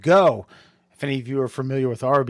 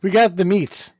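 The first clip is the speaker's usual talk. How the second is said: deep announcer voice; 5 semitones higher, 5 dB louder than usual. Retold or imitated. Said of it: "It's Ving Rhames doing the voice".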